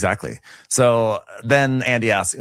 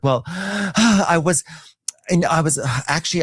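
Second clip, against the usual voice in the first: high, slow, sighing hesitation; mocking Shamia; 11 semitones higher, slower than usual. Shamia fumbling an answer, sighing mock voice. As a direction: sigh and stall in a high mock voice. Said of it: "Shamia's like".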